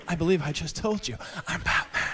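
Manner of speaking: hint of a Batman growl; lightly growled Batman reply. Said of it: "I'll say".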